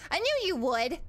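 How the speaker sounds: energetic, emphatic praise; proud cheer. Real, not acted. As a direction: cheer them on with full belief. Cheering on chat, first take.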